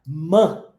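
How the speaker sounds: "Man" said with an open a sound; vowel like a. Shown as a demonstration. Teacher showing the O sounds like A. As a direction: stretch the a in "Man" clearly. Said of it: "O O com som de A".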